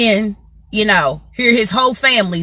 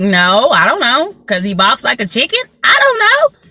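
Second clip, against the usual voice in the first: mock clueless coworker. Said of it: "And they were like".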